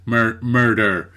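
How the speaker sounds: slow "Mur-, murder" with the American er sound; American R attempt. Shown as a demonstration. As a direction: try the American R in "murder" again, slowly. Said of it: "The, the, the kind of er sound".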